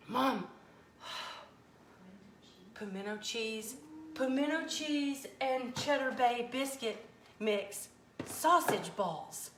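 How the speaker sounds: slow, reverent drawing out of each word; awestruck. Real, not acted. Cook marveling at a viewer's pimento cheese suggestion, slow and awed. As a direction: savor the idea like a revelation.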